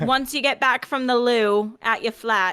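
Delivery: hammed-up British email writer; lightly put-on British slang request; mock British. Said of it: "best British phrases".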